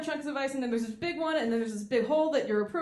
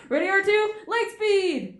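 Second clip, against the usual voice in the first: much higher, louder launch call; excited pilot; 9 semitones higher, 7 dB louder, slower than usual. Retold or imitated. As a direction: shout the jump with glee. Pilot launches light speed.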